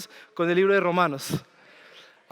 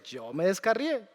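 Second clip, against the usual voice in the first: softer, humbly admitting "yo me descarrié"; a sinner quietly owning "yo me descarrié"; humble confession; 6 dB quieter than usual. Real, not acted. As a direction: let "yo me descarrié" drop to a soft, humble confession. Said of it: "Humilde pecador se los dice".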